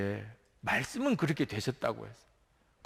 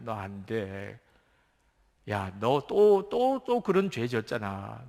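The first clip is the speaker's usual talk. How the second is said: accusing devil; 3 semitones lower than usual. Acted. Preacher voices the devil accusing.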